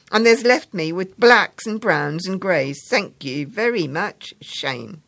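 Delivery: pointed thanks to his friend; sarcastic schoolboy. Acted.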